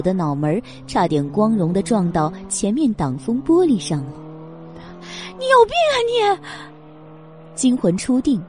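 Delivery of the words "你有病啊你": high, shrill outraged shout; yell. Acted. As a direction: scream it at him. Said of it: "吼了一嗓子".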